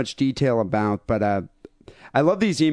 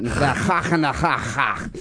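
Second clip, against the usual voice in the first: mock Jewish rabbi voice; slower than usual. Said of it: "that Jewish Hanukkah type of voice".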